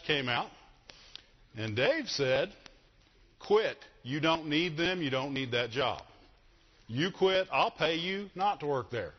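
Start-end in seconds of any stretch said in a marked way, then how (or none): 3.4-9.1 indignant retold order to walk away; mad. Dad urging his daughter to leave her job, mad. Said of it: "and I got mad".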